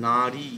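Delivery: নারী with the রী drawn out long; long vowel demo. Shown as a demonstration. Teacher showing students the long vowel, drawn out. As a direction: stretch the রী in নারী. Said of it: "রিটা টান পড়ছে".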